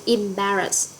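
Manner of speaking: "embarrass" with the beat on BAR; stress on second syllable. Shown as a demonstration. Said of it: "Embarrass sẽ nhấn ở âm tiết thứ hai".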